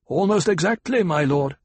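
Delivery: a lightly voiced calm planetologist answering his lord; Kynes, cool desert guide. A narrator's reading.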